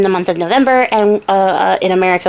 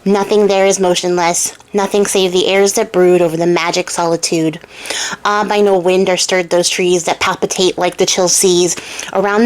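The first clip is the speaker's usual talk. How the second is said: spooky voice. Acted. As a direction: read it like a ghost story. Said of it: "I gotta put my spooky voice on".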